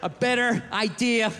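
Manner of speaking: slow, halting, careful wording; tactful hesitation. Acted. Human gently turns down gorilla's escape plan, slow and hesitant. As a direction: pick each word carefully, with awkward gaps.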